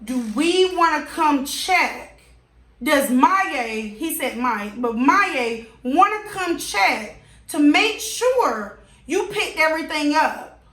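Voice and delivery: slow, drawn-out sarcasm; sarcastic disbelief. Real, not acted. Retelling her answer to the neighbor, slow sarcasm. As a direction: drag each word in disbelief.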